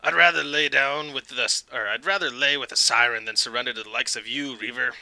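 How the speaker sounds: lightly voiced defiant captain; mildly cocky captain's retort; smirking captain. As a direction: refuse with a hint of a smirk. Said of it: "a nod with a smirk".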